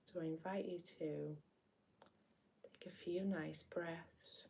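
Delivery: gentle meditation lead-in with long pauses; guided meditation. Acted. Meditation host inviting listeners to breathe and sense the body, guided meditation. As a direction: ease listeners in, unhurried, leaving space between phrases.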